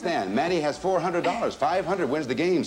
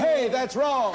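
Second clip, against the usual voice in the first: laughing; 10 semitones higher, slower than usual. Real, not acted. Host laughs at wrong answer.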